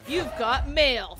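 loud, slow announcer voice; AOL announcer voice. Pretend.

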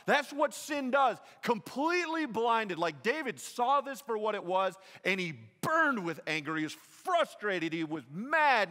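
preaching at full force. Acted. Preacher warning the congregation that sin blinds, fervent and loud. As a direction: drive the point home hard.

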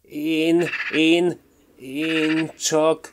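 high, halting stammer of a caught culprit; a small magpie stammering in panic. A narrator's reading. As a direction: stutter it out, flustered and caught. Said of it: "elvörösödve dadogta".

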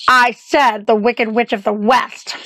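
slow, deliberately spaced-out repetition; emphatic repeat. Acted. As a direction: say it slowly so they catch every word. Repeats for hard-of-hearing listener.

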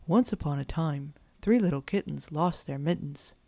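measured sing-song recital; sing-song storytelling. A narrator's reading. Grandpa bear starting a tale for kittens, sing-song. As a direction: lilt it like a nursery rhyme. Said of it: "began in a sing-song kind of way".

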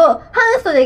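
半袖 in Shizuoka intonation; Shizuoka accent. Shown as a demonstration. 静岡弁の抑揚で「半袖」の言い方を確かめる. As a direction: demonstrate the Shizuoka dialect 半袖. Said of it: "袖が静岡弁".

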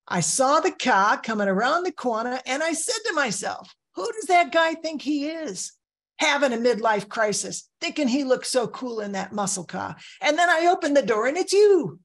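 high, hammed-up Boston accent; bad Boston accent. Valet teasing a regular guest about the muscle car, bad Boston accent. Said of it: "just excuse my bad, bad, uh, Boston la-, accent".

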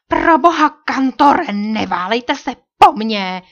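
high, loud, piercing woman's voice; sharp woman's cry. A narrator's reading. A captive woman crying out sharply in the night. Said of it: "projel ostrý ženský hlas".

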